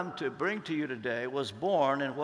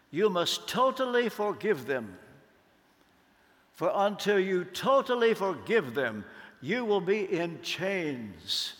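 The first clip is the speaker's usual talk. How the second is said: friend's firm counsel; slower than usual. Retold or imitated. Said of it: "Joseph Tone looked at me and said".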